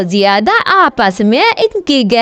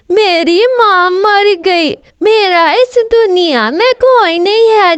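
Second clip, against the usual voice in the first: higher-pitched tearful plea from a scheming kite; fake crying; 5 semitones higher than usual. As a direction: sob out a sad story to win sympathy. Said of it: "रो के कहती है".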